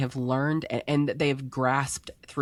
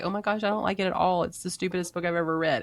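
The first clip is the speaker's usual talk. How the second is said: fast, higher mock critic; imitating a harsh critic; 5 semitones higher, faster than usual. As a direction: toss off a snooty review quickly. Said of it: "They might be like".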